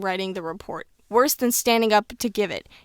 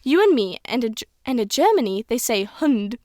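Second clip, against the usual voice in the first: lightly voiced old British schoolteacher; old woman explaining, hint of British accent; a touch of elderly British teacher; Miss Granger. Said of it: "I'm trying to sound how Miss Granger would sound".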